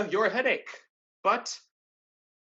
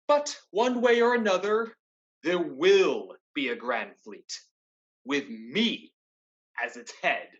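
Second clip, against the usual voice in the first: villain's vow; 4 dB louder than usual. Acted. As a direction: announce your rule with cold menace. Villain declares ambition.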